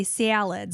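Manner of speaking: SALADS with a Chicago flat A; Chicago-style "salads"; Chicago accent. Shown as a demonstration. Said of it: "our daughter makes fun 'cause I say".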